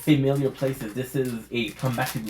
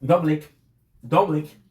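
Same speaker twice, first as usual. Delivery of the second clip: shouted catchphrase; 4 semitones higher, 5 dB louder, slower than usual. Acted. Channel intro catchphrase.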